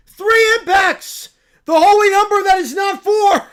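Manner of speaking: a cub thrilled by the news; excited little bear. Acted. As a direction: squeal it like an overjoyed cub. Bear proclaiming.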